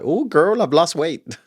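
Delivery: put-on high, campy gushing girl voice; a touch of sass, thrilled at the scale; sassy penguin. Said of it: "It's like".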